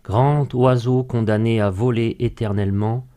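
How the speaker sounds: slow, measured verse with pauses between lines; poem recitation. Acted. Guest recites a remembered poem extract to radio host, measured recitation. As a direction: recite each line deliberately, letting it settle.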